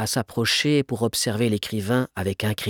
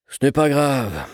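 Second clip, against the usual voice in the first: slow, mildly forgiving; slow, lenient reassurance; indulgent; 3 semitones higher, slower than usual. A narrator's reading. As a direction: wave it away with patient leniency. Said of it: "répondit Gontran Pellepoire d'un ton indulgent".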